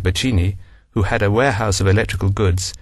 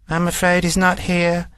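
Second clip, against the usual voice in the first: monotonous; 7 semitones higher than usual. A narrator's reading. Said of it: "in her usual monotonous way".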